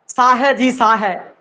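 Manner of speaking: ਸਾਹ ਹੈ with ਹੈ fully sounded; ਹੈ said with a clear h, as nobody says it; wrong way. Shown as a demonstration. Teacher to students, mocking the wrong full h in ਹੈ. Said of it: "ਨਾ, ਨਾ, ਨਾ".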